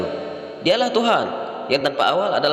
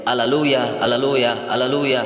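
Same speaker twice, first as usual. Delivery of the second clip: measured, evenly spaced chant-like repeats; lightly intoned angelic refrain, barely sung; imitating angels' praise; slower than usual. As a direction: intone each one with a drawn-out ending. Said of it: "dia mendengar malaikat menyanyi".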